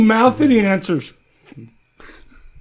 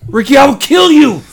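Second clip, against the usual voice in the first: mock threat; 3 semitones higher than usual. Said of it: "I'm so aggressive right now".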